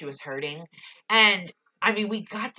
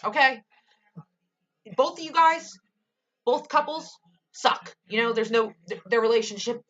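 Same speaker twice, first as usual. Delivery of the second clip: high, loud exasperated rant; 5 semitones higher, 3 dB louder than usual. Real, not acted. Fan scolding both couples, high and loud.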